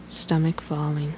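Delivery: fading into a whisper. Acted. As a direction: let the cue fall to a breathy whisper. Breathing cue fades to whisper.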